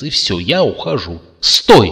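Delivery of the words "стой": loud, urgent shout; ecstatic cry. A narrator's reading. Zlata stops Curtis from leaving, a loud ecstatic shout. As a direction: stop him with everything you have. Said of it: "в экстазе воскликнула Злата".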